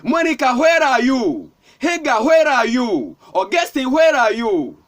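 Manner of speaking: insistent preacher's imitation of a divine call; Spirit calling out. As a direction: call each name out, then stretch the question. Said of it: "The Spirit of God is shouting".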